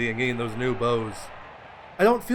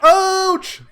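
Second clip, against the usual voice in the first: high, loud sudden yelp; startled cry of pain; 13 dB louder than usual. Real, not acted. Game mishap, yelps.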